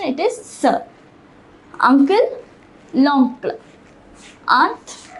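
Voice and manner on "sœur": sœur as one syllable, "sur" with a rounded vowel; pronunciation of sœur. Shown as a demonstration. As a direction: model "sœur" clearly for learners, like "sur". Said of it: "Notice the pronunciation".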